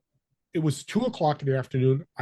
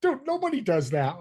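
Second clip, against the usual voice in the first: much higher, imitating the laid-back surfer; mock surfer arguing, pitched way up; surfer dude protest; 13 semitones higher than usual. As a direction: play the surfer dude, squeaking up in disbelief. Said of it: "he started arguing with me and laughing like".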